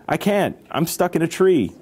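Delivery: high, plaintive storybook call; voice from above. A narrator's reading. Stuck cousin answers from the tree, high voice. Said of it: "Wilmer's voice came from above".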